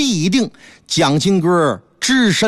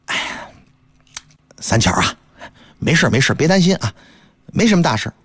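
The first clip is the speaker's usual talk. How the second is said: lower, heavy-hearted husband; 3 semitones lower, faster than usual. Acted. Husband hides his worry from his wife, low sigh. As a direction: brush it off with a sigh.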